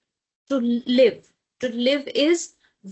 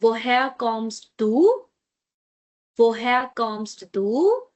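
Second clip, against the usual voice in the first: slow model phrase; slower than usual. Shown as a demonstration. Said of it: "repeat after me".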